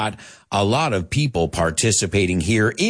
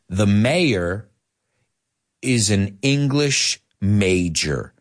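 slow, with a long pause after "mayor"; model sentence; slower than usual. Shown as a demonstration. Teacher modelling for learners, slow and spaced out. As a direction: separate the phrases carefully, slowing on "English major". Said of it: "let's say it".

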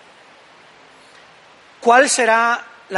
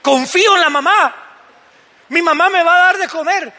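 put-on higher, childish little voice; baby's thoughts; 7 semitones higher, 5 dB louder than usual. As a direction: voice the baby trusting its mom. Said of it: "Baby está llorando para que la madre". (voz aguda de bebé confiado)

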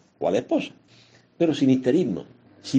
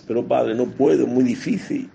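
higher, louder mock plea of a doubting believer; whiny parishioner; 5 semitones higher, 4 dB louder than usual. Priest mimicking a parishioner complaining to him, higher and louder. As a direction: whine it like a churchgoer who thinks it's too hard.

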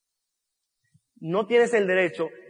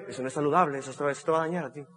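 lecturing doctors; 6 semitones lower, 8 dB quieter, faster than usual. Retold or imitated. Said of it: "La gente me decían".

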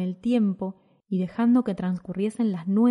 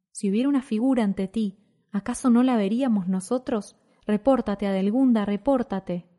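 raised urgent voice, a touch of alarm; mild shout; 2 semitones higher than usual. Acted. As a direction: call out firmly to calm her. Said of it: "gritó la coronela".

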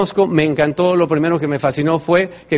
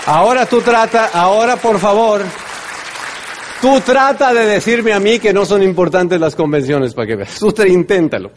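loud challenge; 6 semitones higher, 4 dB louder than usual. Real, not acted. Challenging the audience.

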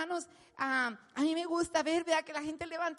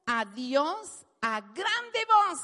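loud, slow, building proclamation; preaching loud; 6 dB louder, much slower than usual. Acted. Preacher tells how the healed man praised God, loud. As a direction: proclaim it slowly.

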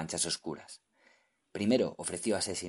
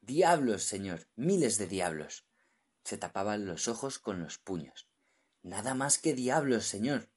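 terrified; 2 semitones higher, 3 dB louder than usual. Acted. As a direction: dread in every word. Terrified diver describing devils.

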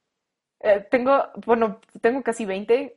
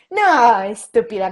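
loud retorted insult; mock outburst; 6 dB louder, slower than usual. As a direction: bark the insult at her. Retold fight, insulting Lucy. (insulto fingido en voz alta)

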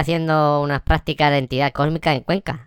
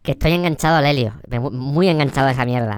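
cavernous creature voice; 2 semitones lower than usual. Acted. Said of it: "Yo tengo la voz cavernosa".

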